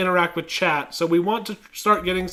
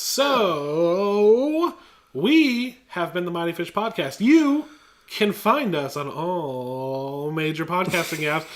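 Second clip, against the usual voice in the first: carnival barker voice; slower than usual. Pretend. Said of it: "this carnival barker voice".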